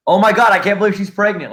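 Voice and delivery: high excited scroller gasp; mock gushing. Imitating a Facebook scroller, mock gushing. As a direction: gush like someone lost in Facebook. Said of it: "you're like".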